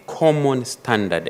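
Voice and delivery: "common standard" pressed firmly, falling at the end; stress on common standard. Shown as a demonstration. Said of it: "emphasis on common standard".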